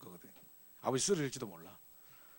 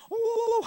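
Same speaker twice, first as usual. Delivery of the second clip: war whoop; 11 dB louder than usual. Retold or imitated. Natives charging, imagined war cry.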